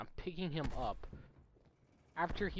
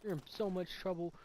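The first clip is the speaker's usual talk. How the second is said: higher, emphatic mock telling-off; imitated scary scolding; 3 semitones higher, 4 dB louder than usual. Dean and staff trying to scare a little kid, mock stern scolding. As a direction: lay on the stern warning, retold. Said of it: "they are all trying to scare me".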